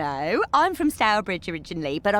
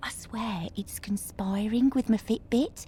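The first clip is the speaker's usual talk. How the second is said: conspiratorial whisper; 5 dB quieter than usual. Acted. Paranoid aside.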